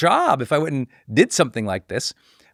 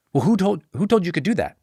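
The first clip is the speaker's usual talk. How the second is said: mildly affronted, higher-pitched challenge; upset challenge; 5 semitones higher than usual. Retold or imitated. Teacher challenging a graduate's homemade book, mildly upset. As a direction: lightly imitate an upset objector. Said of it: "this person was really upset about it".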